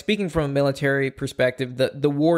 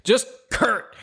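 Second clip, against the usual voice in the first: amused; 7 semitones higher, much slower than usual. Real, not acted. Amused at a one-name patron.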